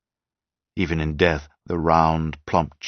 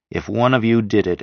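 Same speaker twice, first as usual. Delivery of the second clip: If weighted, higher and louder; stress on if; 5 semitones higher, 4 dB louder than usual. A narrator's reading. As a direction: lean on the word If before the rest. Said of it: "and I stress the word if".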